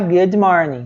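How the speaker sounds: "good morning" as "goody morning"; wrong extra i. Shown as a demonstration. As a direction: slip an ee after the d of "good" before "morning". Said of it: "não vai falar". ("good morning" com um i depois do d)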